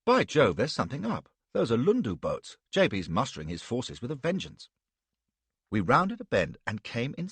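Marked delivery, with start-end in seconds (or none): 0.0-4.7 louder, eager officer; a young man thrilled that action is coming; mildly excited gentleman. Acted. Stuart excited by the war boats.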